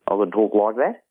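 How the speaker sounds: broad Australian accent, a middle-aged bloke; exaggerated Australian. Shown as a demonstration. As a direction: ham up the Australian accent like an older man. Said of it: "an exaggerated middle-aged man that's Australian".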